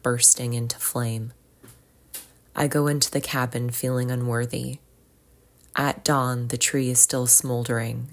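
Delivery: measured poetry reading with pauses between lines; poem reading. Acted. Podcast host reads a nature poem to listeners, measured recitation. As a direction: read each line evenly, letting it settle.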